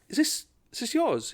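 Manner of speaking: high, faux-innocent query; mock innocent question. Comedian baiting racist coworker, high mock-innocent voice. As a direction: play dumb, pitch way up. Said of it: "I was like".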